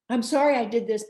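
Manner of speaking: sorry that's really a defence; fake apology. Shown as a demonstration. Demo of a bad apology to a partner, pushy and defensive. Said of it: "That is not an apology".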